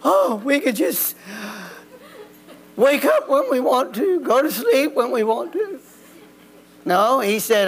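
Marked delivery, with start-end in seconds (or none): 0.1-5.8 mock dreamy. Mocking the idea of an idle Eden.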